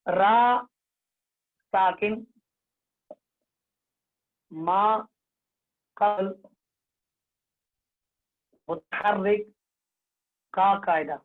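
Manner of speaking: word by word, long pauses for the class; teacher dictating for a group echo; call and repeat. Shown as a demonstration. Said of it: "हर कोई मेरे साथ कहिए".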